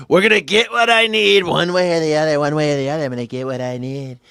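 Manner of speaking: hammed-up Trump bluster; brash Trump riff, punching the repeats; Trump impression. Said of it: "You've been hanging out with Donald Trump a lot".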